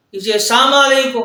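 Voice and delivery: السلام علیکم slurred as "isam aleku"; sloppy greeting; careless salam. Shown as a demonstration. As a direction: run اسے السلام علیکم together, dropping the l. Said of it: "یا اس قسم کے اور جو کلمات ہیں".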